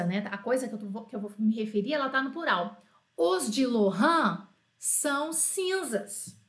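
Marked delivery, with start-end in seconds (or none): 3.2-6.4 slow, deliberate model phrase; slow model sentence. Shown as a demonstration. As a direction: lay out "Os de Laurent" word by word. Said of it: "eu quero dizer assim".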